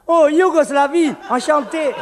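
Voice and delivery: pleased to meet you, hammed up; delighted greeting. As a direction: greet him with exaggerated delight. Acted bar dialogue.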